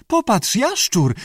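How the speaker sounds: very high, pleased creature voice; contented grunting lizard. A narrator's reading. Lizard chatters over its bread roll, contented. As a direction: parrot it high, pleased with itself. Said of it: "chrząkał zadowolony".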